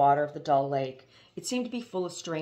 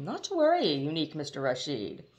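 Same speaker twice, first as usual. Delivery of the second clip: tactless cry. Acted. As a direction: cry it out without tact. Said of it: "he cried tactlessly".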